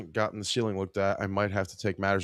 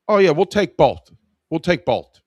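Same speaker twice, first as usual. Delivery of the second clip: eager customer; 7 semitones higher, 8 dB louder than usual. Retold or imitated. Customer eagerly agrees to buy.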